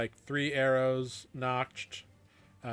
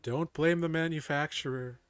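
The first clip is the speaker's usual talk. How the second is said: goddess voice; 2 semitones higher, 4 dB louder than usual. Acted. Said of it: "You hear a divine voice in your ear".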